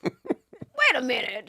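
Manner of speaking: slow, drawn-out laughing voice; laughing realization. Retold or imitated. Actress realizing late she was called funny, laughing. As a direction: stretch it out while laughing.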